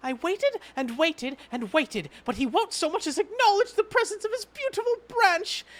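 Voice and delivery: a hint of a theatrical sulky fairy; hammed-up wounded complaint; lightly voiced pouty fairy. Voicing Feo fairy character.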